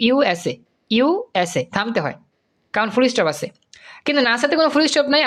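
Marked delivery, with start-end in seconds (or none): 0.1-1.6 slow "ইউএসএ", each letter kept apart; stopping between letters. Shown as a demonstration. Teacher shows USA needs stops, slowly spelled letter by letter. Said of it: "ইউএসএ থামতে হয় কিন্তু".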